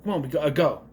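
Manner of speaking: lightly mimicked British accent; imitating a British accent slip; Aaron Taylor Johnson. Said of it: "did he just go into his accent".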